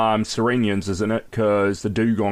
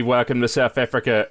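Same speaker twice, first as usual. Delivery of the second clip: South African accent. Shown as a demonstration. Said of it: "only bit of the accent".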